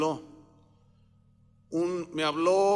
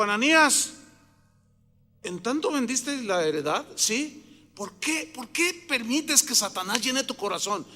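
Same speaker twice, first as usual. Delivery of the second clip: mildly acted rebuke, pitched higher; confronting questioning; 4 semitones higher than usual. Apostle questioning Ananías over the sold land, confronting. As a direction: press the questions like an accusing apostle.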